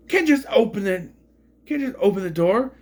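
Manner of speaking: high-pitched panicky movie quote; Sam Rockwell. Retold or imitated. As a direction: build to a loud, near-hysterical wail. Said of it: "now I wanna quote, um, uh, Sam Rockwell".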